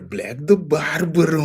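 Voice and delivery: "Black the Barber" said high and in the island accent. Shown as a demonstration. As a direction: say it the way people from his island talk. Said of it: "This is our accent".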